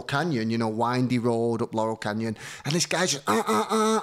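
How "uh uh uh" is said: mock horn honk. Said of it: "and his horn behind me".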